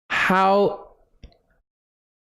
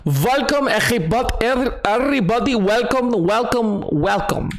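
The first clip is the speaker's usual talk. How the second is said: put-on German accent; 4 semitones higher than usual. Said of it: "another German".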